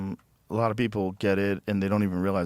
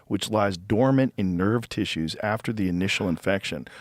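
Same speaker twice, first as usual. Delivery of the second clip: reciting a search result; reading it out. Acted. Friend reads the shingles entry aloud, even reading voice.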